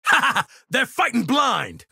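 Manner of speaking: high, laughing battle taunt; gloating laughter. Acted. Gloating over enemies fighting blind, laughing shout.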